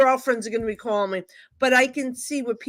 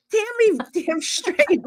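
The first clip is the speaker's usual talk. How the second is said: laughing; 11 semitones higher, slower than usual. Retold or imitated. Mock reply, laughing.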